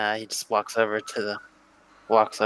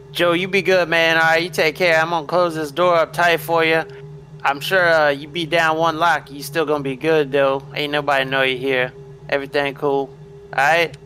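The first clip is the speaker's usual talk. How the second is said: Lightning Red, friendly farewell; 5 semitones higher than usual. Acted. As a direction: reassure a man while hustling out the door.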